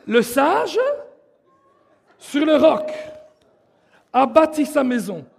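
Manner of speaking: spoken phrase by phrase, with pauses; teaching recitation. Shown as a demonstration. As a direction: call out each piece for the group to follow. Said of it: "Je vais vous l'apprendre". (récité par morceaux, avec des pauses)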